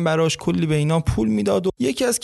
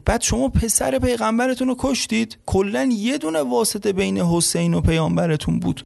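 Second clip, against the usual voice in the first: indignant disbelief; 5 semitones higher than usual. Retold or imitated. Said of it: "گفتش که".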